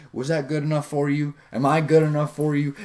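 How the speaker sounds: mock-needy questioning lilt; seeking approval. Shown as a demonstration. Coach imitating someone unsure of themselves, approval-seeking questions. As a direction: ask as if begging permission. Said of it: "It's constantly like seeking approval".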